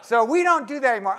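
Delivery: hammed-up weary shopkeeper; pie man's refusal. Pie man refusing again.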